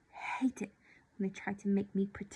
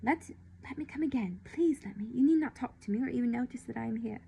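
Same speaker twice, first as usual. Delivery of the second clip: with a rush; 3 semitones higher, 3 dB louder than usual. Acted. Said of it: "Then, with a rush".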